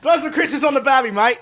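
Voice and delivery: mock Australian bloke, grinning through it; Australian accent, playful and laughing. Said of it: "you have to do the accent".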